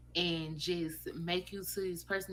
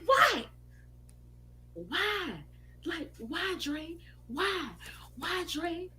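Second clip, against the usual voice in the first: hurt mother; 10 semitones higher, much slower than usual. Retold or imitated. Mother upset, walking away.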